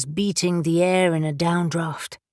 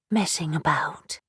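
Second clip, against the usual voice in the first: "Messing" whispered, puzzled, rising; puzzled question; 3 semitones lower than usual. Acted. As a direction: whisper "Messing about?" in confusion. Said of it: "she asked, puzzled".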